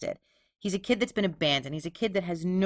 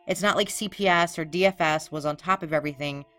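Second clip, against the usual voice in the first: sarcastic. Acted. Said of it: "that was a little bit of sarcasm".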